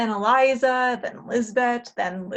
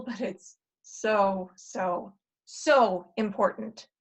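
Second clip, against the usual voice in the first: earnest plea; 3 semitones lower, slower than usual. Acted. Future self pleads earnestly.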